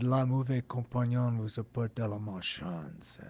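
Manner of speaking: put-on lightly done French-Canadian accent, a bit soft. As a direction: recall Pasquinel's French-Canadian accent, understated. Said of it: "that was the French-Canadian accent".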